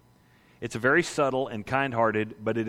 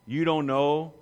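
slow, disbelieving questions; Jesus asking John's disciples, mildly incredulous. Acted. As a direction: ask as if the answer is obvious. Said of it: "Jesus looks at John's disciples and says".

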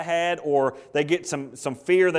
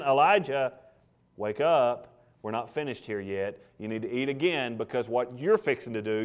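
low, gentle, coaxing tone; gentle voice of God; 3 semitones lower than usual. Acted. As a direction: speak like a father waking his son. God waking Elijah, quoted.

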